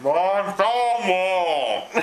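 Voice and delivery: slow, giggling through the words; laughing and drawn out. Shown as a demonstration. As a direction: stretch it out while laughing. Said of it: "repeats slowly, laughing".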